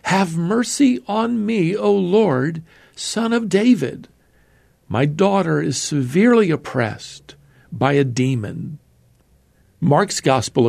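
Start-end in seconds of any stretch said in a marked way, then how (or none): 0.0-8.8 crying out for mercy. Retold or imitated. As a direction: imitate a desperate woman's cry, restrained in volume. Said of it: "came out and was crying".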